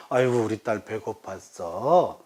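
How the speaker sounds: mild doting-parent sympathy; soothing parent. Shown as a demonstration. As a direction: coo it sympathetically to a child, drawn out. Parent echoing hungry daughter, demonstrated.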